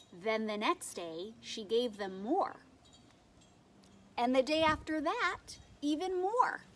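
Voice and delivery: put-on animated read-aloud for young children; expressive storytime reading with lightly acted quotes; picture-book narration. A narrator's reading. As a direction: tell it like a picture book, leaning on key words.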